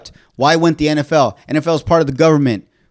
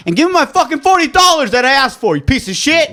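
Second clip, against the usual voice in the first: mock angry; 9 semitones higher than usual.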